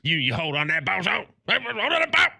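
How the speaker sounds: high, rising yell about the ball; hammed-up yelling. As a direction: bellow it like a worked-up coach. Coach-style yell about fumbling.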